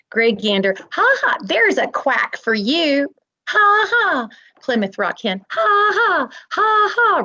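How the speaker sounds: mocking laugh. Animals jeer at duckling.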